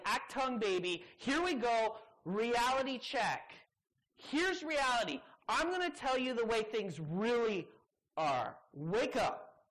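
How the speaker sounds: loud, punchy wake-up call; emphatic reality check. Acted. Preacher voicing Jesus jolting the crowd awake, loud. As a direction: hit them with it, hard and loud.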